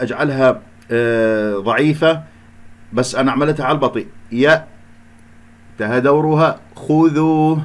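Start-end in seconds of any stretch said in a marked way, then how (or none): 4.3-4.6 يا cut off on a firm hamza, then silence; split syllable. Shown as a demonstration. Teacher dividing the word, isolated stopped syllable يا. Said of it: "هكذا قسموها". 6.8-7.6 خذوا set apart after a pause, drawn out; split syllables. Shown as a demonstration. Teacher dividing the word for practice, separately chanted خذوا. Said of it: "هكذا قسموها".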